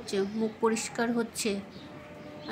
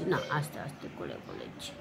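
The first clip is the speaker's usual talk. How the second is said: soft and low; 7 semitones lower, 7 dB quieter than usual. Shown as a demonstration. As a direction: drop the voice to a gentle hush. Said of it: "আস্তে করে বলছি". (নরম নিচু গলায়)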